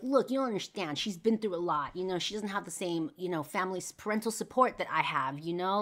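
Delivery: worked-up defensive retelling. Retold or imitated. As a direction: plead her case, retelling your own defensive outburst. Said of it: "I would get super defensive".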